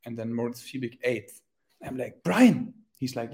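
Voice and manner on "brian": higher, louder call for attention. Retold or imitated. Athlete calls to friend on the bus, calling out. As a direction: call his name sharply, raised pitch. Calling to companion in retold scene.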